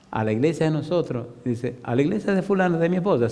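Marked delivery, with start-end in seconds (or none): 1.8-3.3 higher-pitched, balking echo of the invitation; incredulous echo question. Retold or imitated. Husband balking at his wife's church, incredulous. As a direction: throw the church back as a disbelieving question.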